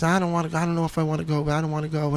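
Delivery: a light imitation of a pouting daughter; whiny seven-year-old. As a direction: mimic a reluctant child saying no. Daughter voiced in a story.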